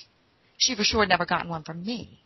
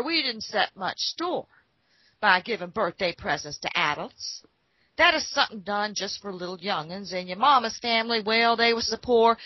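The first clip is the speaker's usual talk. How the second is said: folksy father voice; 4 dB louder than usual. Retold or imitated. Father voiced, frontier folksy talk.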